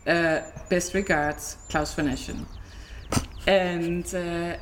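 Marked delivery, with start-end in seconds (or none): 0.1-2.5 slow, stiff and formal, lightly voiced; abrupt German emailer. Owner reading her fake German accountant's reminder, slow and stiff. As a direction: read it out like a curt invoice note. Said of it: "he was a little bit more abrupt".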